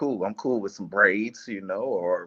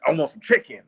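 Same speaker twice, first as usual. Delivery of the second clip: wig voice; 5 semitones higher, 7 dB louder than usual. Retold or imitated. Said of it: "and then I heard".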